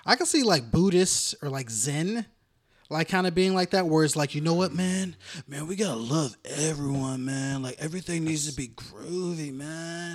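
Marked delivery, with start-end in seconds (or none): 4.3-10.1 lightly voiced mellow hippie; a hint of a laid-back hippie, man. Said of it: "That's a hippie voice".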